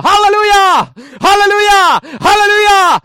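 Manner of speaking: full-voice, high-pitched triple hallelujah shout. Acted. Preacher showing believers how to cry out from a pole top, shouting. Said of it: "nouse tolpan nokkaan ja huuda".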